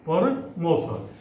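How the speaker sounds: परमौसत said slowly and clearly; slow dictation. Shown as a demonstration. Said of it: "आप लिख सकते हैं परमौसत है". (परमौसत धीरे-धीरे साफ़ बोलना)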